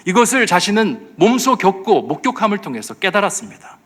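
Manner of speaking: ordinary talk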